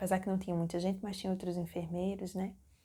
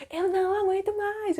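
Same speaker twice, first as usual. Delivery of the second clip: high, loud imitated wail; hammed-up desperate shriek; mock screaming; 12 semitones higher, 6 dB louder than usual. Labouring woman telling her partner she can't cope, loud mock scream. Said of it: "eu comecei a gritar".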